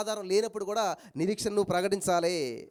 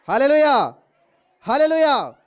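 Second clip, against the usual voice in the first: loud hallelujah; 4 semitones higher, 10 dB louder than usual. Real, not acted. Preacher shouting hallelujah at the congregation's request. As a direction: shout hallelujah twice, ringing. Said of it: "మరి గట్టిగా హల్లెలూయా చెప్పండి".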